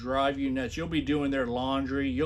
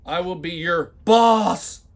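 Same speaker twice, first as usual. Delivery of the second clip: loud, slow, hammed-up boss proclamation; mocking, slow, loud read; mock all-caps shouting; 4 semitones higher, 11 dB louder, slower than usual. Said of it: "when I put heavy accents and shout".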